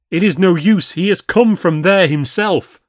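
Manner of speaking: high, loud fearful protest; a landlord too scared to go; frightened wail. A narrator's reading. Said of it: "wailed the landlord".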